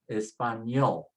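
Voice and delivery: español with a falling, weighted ÑOL; stress on last syllable. Shown as a demonstration. Teacher repeats for learners, stressing español on ÑOL. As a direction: say español, leaning on the end. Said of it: "so you say español".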